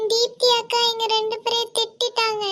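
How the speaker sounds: put-on tearful child tattling to mum; wailing complaint; crying. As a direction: whine it out through tears. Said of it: "எதுக்கு அழுவுறீங்க".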